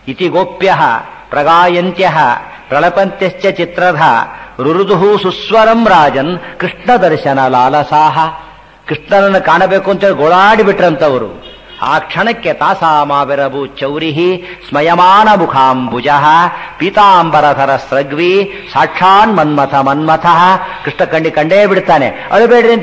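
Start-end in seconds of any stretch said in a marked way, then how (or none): 0.1-8.2 measured shloka, phrase by phrase; formal scriptural recital; Sanskrit verse recitation. Acted. 12.5-20.6 slow, measured shloka with long vowels; formal scriptural recital; Sanskrit verse recitation. Acted.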